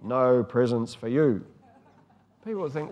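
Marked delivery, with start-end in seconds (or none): 0.0-1.4 a hint of a stern dad, louder; stern father. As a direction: lecture the children like a disappointed father. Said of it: "Dad stood there with a stern face saying".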